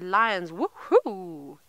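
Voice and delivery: imitated excited cheer, kept down; a careful woohoo that won't scare lions; hushed cheer. Guide copying a viewer without scaring the lions, hushed cheer. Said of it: "I need to try to do this".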